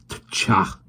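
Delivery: scornful click of disgust; disgusted tcha. A narrator's reading. Park keeper scoffs at Willoughby, disgusted tcha. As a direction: tut at the dog. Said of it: "he exclaimed disgustedly".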